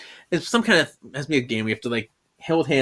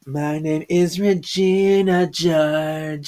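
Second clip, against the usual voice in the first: put-on mean girl; 2 semitones higher, much slower than usual. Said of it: "mean girl thing".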